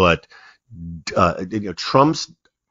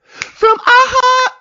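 big drawn-out announcer voice, pitched way up; grand radio intro voice; 6 dB louder, much slower than usual. Shown as a demonstration. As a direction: boom out the show title like a host. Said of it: "See, I blew it already".

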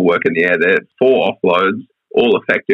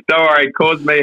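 says it through a laugh, pitched up; chuckling reassurance; 7 semitones higher than usual. Real, not acted. Laughing while reassuring co-host.

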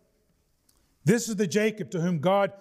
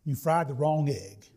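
grumpy husband; 4 semitones lower, slower than usual. Retold or imitated. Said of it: "hard-to-please husband complains".

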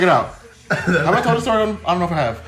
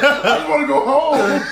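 high, slow whine through laughter; mock pleading victim; 7 semitones higher, slower than usual. Robber turned victim on hijacked bus, mock pleading. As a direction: plead it high and drawn out, playfully.

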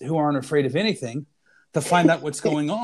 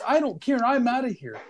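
high-pitched mock alarm; lightly acted, higher frightened protest; retold panic; 6 semitones higher than usual. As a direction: imitate someone desperate to get away. Retold scared young man fleeing.

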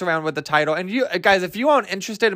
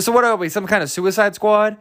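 mock stupid; 4 semitones higher than usual. Mocking the film's title drop, stupid-sounding delivery in one go. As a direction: push "Suicide Squad" out without a pause. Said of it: "like, stupid he said it".

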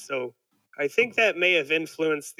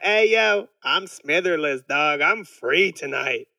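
mock kid slang; slower than usual. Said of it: "You kids out there, start being like".

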